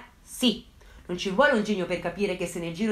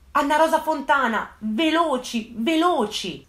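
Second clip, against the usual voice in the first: higher, louder, urgent retold plea; agitated voice; 5 semitones higher, 5 dB louder, slower than usual. Girlfriend urging the carabinieri to hurry, agitated and higher. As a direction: rush it out like someone in panic. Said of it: "con una voce alquanto concitata".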